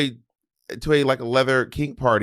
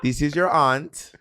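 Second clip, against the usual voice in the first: West Indian aunt; much slower than usual. Retold or imitated. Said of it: "They'd be like".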